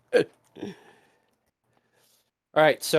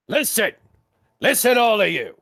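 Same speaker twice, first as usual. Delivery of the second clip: high, forceful call to attention; inspiring leader; 7 semitones higher, 4 dB louder than usual. Acted. Skirvo calls the crew together for the speech, rousing shout. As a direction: call out to rally everyone before battle. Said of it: "start with my inspiring leader".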